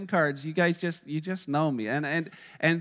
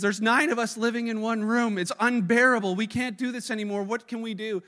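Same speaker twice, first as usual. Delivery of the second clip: higher, louder, fed-up complaint to the rabbi; complaining; 4 semitones higher, 5 dB louder than usual. Retold or imitated. Poor man complaining to his rabbi, higher and louder. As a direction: whine about the crowded room. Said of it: "He's complaining".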